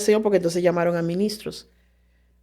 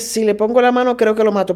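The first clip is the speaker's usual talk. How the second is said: forceful authority; 2 semitones higher, 4 dB louder than usual. Retold or imitated. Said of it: "una autoridad que tú dices".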